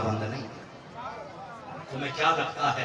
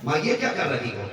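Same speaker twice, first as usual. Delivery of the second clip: same question with a sharper, impatient edge; "माँ, ये क्या कर रही हो?" pushed out, mildly annoyed; irritated tone. Retold or imitated. Tired son snaps a little at his mother, mildly irritated. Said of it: "देखो, लहजा बदल गया दो बार में".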